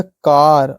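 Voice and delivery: "कार" with a long, open aa; teacher modelling the aa in "कार"; long aa sound. Shown as a demonstration. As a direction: draw out the vowel in "कार" as aa. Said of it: "देखो, अ की मात्रा है".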